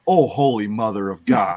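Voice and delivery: mock burning shock. Tasting neighbor's homemade salsa, loud mock shock. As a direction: react like the salsa just hit.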